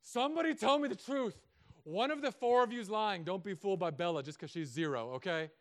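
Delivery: put-on loud, high interrogation of the kids; pressing demand. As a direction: demand the truth from the children. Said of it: "pressing in".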